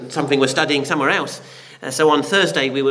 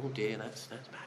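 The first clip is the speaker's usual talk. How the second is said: shrugging oh dear; 5 semitones lower, 18 dB quieter than usual. Retold or imitated. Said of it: "and go".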